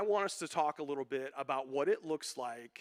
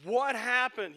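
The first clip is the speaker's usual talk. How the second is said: put-on high, fast, whining young voice; whiny lament voice; 9 semitones higher, 5 dB louder, faster than usual. Pastor voicing the sad psalmist, high and whining. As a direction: play a lost soul whining about the good old days. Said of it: "He's going".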